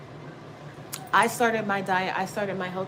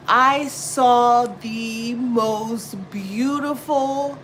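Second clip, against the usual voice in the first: awestruck drawl; 4 semitones higher, 7 dB louder, much slower than usual. Real, not acted. Awed at seeing Tiff online.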